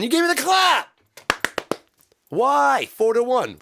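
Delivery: loud, high-pitched accusation; hammed-up fury, voice shooting up; outraged yell. Musician demanding a reason, mock outraged. Mock rant over a clap sound.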